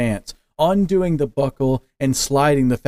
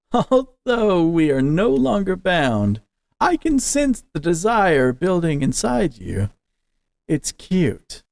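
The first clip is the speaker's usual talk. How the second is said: slow, higher, sly demon; 6 semitones higher than usual. Acted. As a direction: purr it like a teasing demon. Demon speaks to Nerai.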